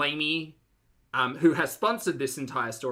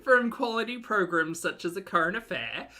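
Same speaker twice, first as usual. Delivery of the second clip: mock praise; 5 semitones higher than usual. Mock sign-off praising trashy show.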